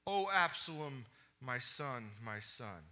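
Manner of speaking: grief sinking to a quiet, falling murmur; fading lament. Acted. David grieving his dead son, fading lament. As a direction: let the cry die away into softness. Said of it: "he cried".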